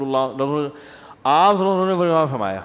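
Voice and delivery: صلی اللہ علیہ وسلم slurred into a quick mumble; mock the careless shortcut; mumbled shortcut. Mufti imitating people rushing the blessing, mumbled. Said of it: "یوں بول رہے ہوتے ہیں لوگ".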